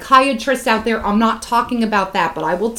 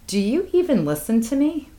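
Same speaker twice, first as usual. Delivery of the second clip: higher-pitched, reproachful retold complaint; exasperated confrontation; 4 semitones higher than usual. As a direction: confront them with mild exasperation. Retold patient confronting the therapist.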